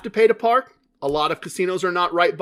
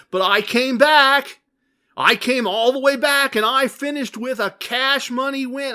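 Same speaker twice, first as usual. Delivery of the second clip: loud, high, triumphant showoff; bragging; 5 semitones higher, 4 dB louder than usual. Retold or imitated. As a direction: brag it like a showoff. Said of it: "come on here and say".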